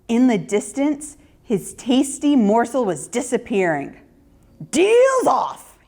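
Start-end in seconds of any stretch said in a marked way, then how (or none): 4.7-5.8 much higher, louder sudden wolf outburst; the wolf calls off the deal; wolf declaring. A narrator's reading. Wolf breaking his deal with Ruthie, loud higher declaration. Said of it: "he declared".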